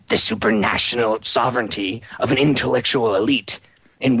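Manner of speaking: wrinkled evil voice. Retold or imitated. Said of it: "read it in his little wrinkled, evil voice".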